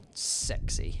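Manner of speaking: whispered punchline; a teasing whispered aside. Real, not acted. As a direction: drop to a whisper for the joke. Joking aside about a viewer.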